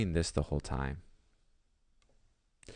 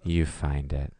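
hammed-up wounded farewell, louder; mock dramatic exit line; 5 dB louder than usual. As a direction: deliver it like a parting shot. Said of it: "I remember being like".

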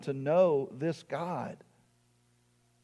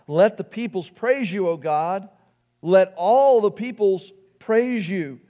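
psalm cried out with raised voice; crying out; 5 semitones higher, 8 dB louder than usual. Acted. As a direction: call it out to God in praise. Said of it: "we cry out".

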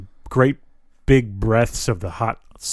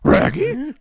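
high goofy cartoon dog voice; Scooby-Doo voice. Joking back to a friend, high cartoon dog voice. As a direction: yelp it like Scooby.

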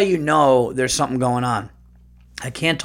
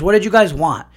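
louder, higher, fed-up question; exasperated rant; 6 semitones higher, 6 dB louder than usual. Real, not acted. Ranting at critics who panned the movie. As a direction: demand it from the critics.

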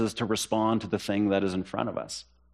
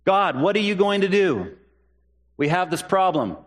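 pleading believer; 6 semitones higher than usual. Retold or imitated. Believers voiced praying to God.

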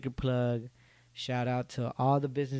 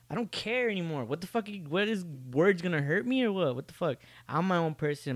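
higher, defiant outburst; 5 semitones higher than usual. Real, not acted. Vlogger brushing off critics, high defiant outburst. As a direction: throw the question out in defiance.

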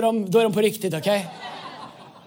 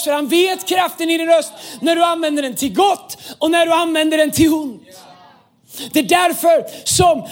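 raised preacher's voice, driving repetitions; insistent preaching; 3 semitones higher, 4 dB louder than usual. Real, not acted. Preacher telling the church why the devil wants their voice, insistent preaching. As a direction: press each repeated reason home.

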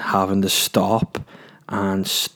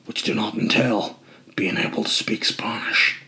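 Liam Neeson impression; 3 dB quieter than usual. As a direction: growl it like a movie hard man. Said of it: "You sound like Liam Neeson".

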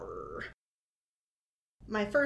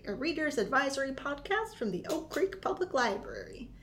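put-on pirate accent. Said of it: "hosting things with a funny accent".

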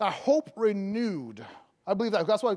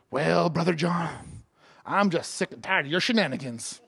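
miserable Christian; 4 semitones lower than usual. Acted. Miserable Christian answering how are you doing, dreary grumble. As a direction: drag it out like a sour churchgoer.

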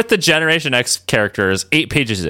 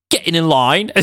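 a really bad British accent; Spike from Buffy; 2 semitones higher than usual. Shown as a demonstration. Showing how badly they do British, poor British accent. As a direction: attempt a hammed British accent and miss. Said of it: "sounds like a really bad Spike accent".

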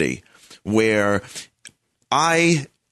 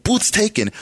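mock yell pitched much higher; retold yell; 9 semitones higher than usual. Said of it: "he's screaming at her".

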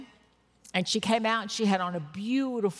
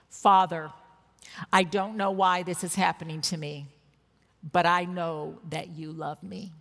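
gently quoting a tearful friend's prayer; low, tender, trusting prayer; soft, sweet voice; 4 semitones lower than usual. Retold or imitated. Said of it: "In a very soft and sweet voice".

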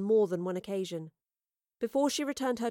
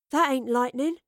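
raised, higher-pitched warning; alarmed cry; 4 semitones higher, 6 dB louder than usual. A narrator's reading. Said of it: "Astrid cried".

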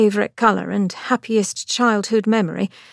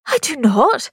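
higher, a touch of offended denial; Angelica, aghast; 5 semitones higher, 3 dB louder than usual. A narrator's reading. Sister denying the charge, mildly offended. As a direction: deny it, mildly shocked.

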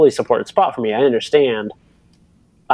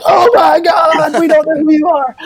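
much higher, slow, loud mock yell of fans; hammed-up shrieking spectators; mock crowd shout; 6 dB louder than usual. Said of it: "they're like".

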